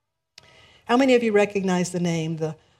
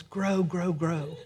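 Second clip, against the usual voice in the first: whispered grow; 5 dB quieter, slower than usual. Retold or imitated. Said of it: "grass and whispers".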